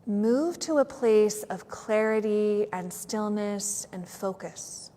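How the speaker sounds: unhurried yoga nidra guidance with long pauses; measured meditation voice, letting each phrase settle; guided meditation. Real, not acted. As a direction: guide them gently into stillness.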